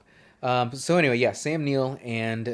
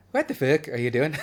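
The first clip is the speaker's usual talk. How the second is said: laughing at himself; 4 semitones higher, 5 dB louder than usual. Retold or imitated. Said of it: "tried to do an accent of it".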